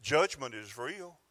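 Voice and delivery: slowed, deliberate preaching; slow proclamation. Acted. Preacher declaring to the church, slow weighty proclamation. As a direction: spell out each phrase weightily.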